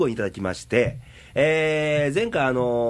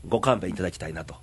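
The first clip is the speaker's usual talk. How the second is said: blocked-nose voice, muffled n sounds; nasal voice; 4 semitones lower, faster than usual. Real, not acted. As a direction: speak with a stuffy nose. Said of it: "な行がすごい言いづらいです".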